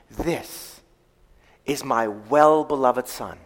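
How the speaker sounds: slow, soft, well-beloved drawn out; stress on well-beloved. Shown as a demonstration. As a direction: lean gently on "well-beloved". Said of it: "Not, "This is my Son".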